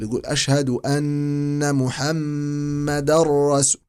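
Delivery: محمدا رسول with the tanween merged into the ra, no nasal; full idgham. Shown as a demonstration. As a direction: roll محمدا straight into رسول. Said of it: "وإدغام كامل".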